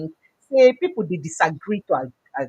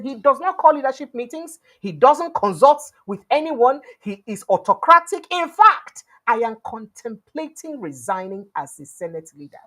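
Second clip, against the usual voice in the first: animated quote; 5 semitones higher, 4 dB louder than usual. Retold or imitated. Quoting Bamidele in heated session.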